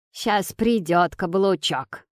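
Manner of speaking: slow, sly jab; snide remark. Acted. Grandmother teases about the henpecked father, mildly snide. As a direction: drawl it with a sly dig. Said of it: "говорит бабуля ехидно".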